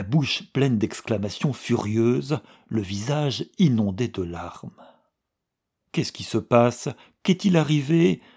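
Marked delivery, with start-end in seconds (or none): 5.9-8.2 alarmed questions, slightly raised; a touch of a worried outcry; anxious cry. Acted. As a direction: rush to her worried. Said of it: "cria miss Estcourt".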